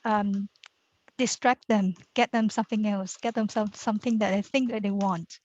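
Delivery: through a face mask. Real, not acted. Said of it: "forgive my mask because".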